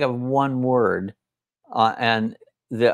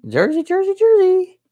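mock Jersey call; 4 dB louder than usual. Mocking Jersey accent, very high.

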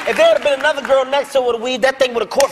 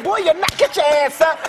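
furious dad yelling, half laughing; angry yell at son; 5 semitones higher than usual. Retold or imitated. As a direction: yell at the kid to get up. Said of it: "I yelled, I got so mad".

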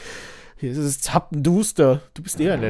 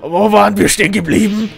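lightly voiced villain threat; 4 dB louder than usual. Boss resumes threat.

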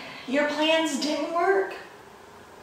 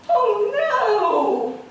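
higher, louder "oh no" in playful alarm; mock alarm; 9 semitones higher, 6 dB louder than usual. Reader reacting to the kitties being chased, playful alarm. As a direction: gasp it like the kitties are caught.

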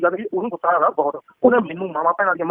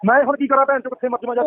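higher, pleading and fed up; exasperated cry of what do you want from me; exasperated outburst; 6 semitones higher than usual. Real, not acted. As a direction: throw up your hands, cornered in the fight. Exasperated in a phone quarrel.

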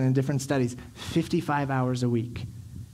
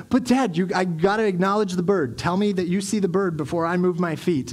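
put-on insistent child; 3 semitones higher, 3 dB louder than usual. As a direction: play a kid stalling his dad, pitched up. Son stalling his hurried father.

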